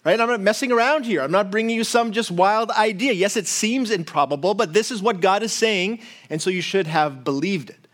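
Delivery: a casual paraphrase of a stern rebuke; lightly voiced exasperated Gabriel; Gabriel scolding. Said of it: "Gabriel's like".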